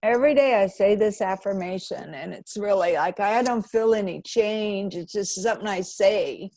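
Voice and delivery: unconvinced, going through the motions; bored affirmation said for show; half-hearted affirmation. Shown as a demonstration. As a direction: recite it like you don't believe it. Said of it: "But if you say it like this".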